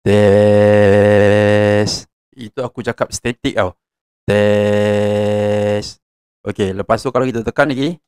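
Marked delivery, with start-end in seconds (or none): 0.0-2.1 robotic auto-tuned test; auto-tune voice. Shown as a demonstration. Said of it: "Dia macam ada auto-tune". 4.3-6.0 wavering effect. Shown as a demonstration. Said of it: "Dia macam ada beralun".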